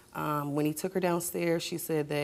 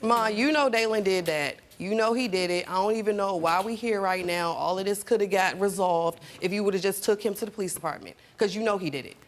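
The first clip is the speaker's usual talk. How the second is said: angry confrontation; 2 semitones higher than usual. Acted. Confronting mother about abuse.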